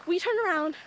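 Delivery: breathless after sprinting; panting between words; out of breath. Real, not acted. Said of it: "that's why we're so out of breath".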